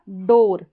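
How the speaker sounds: डोर with an "or" vowel; OOR as "or". Shown as a demonstration. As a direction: model डोर clearly as one syllable. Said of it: "और करके पढ़ा जा रहा है".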